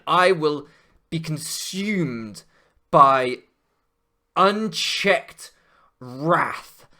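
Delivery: slow, hammed-up villain oath; mock dramatic vow. Streamer vowing revenge after loss, hammed-up slow menace. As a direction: draw it out like a melodramatic villain.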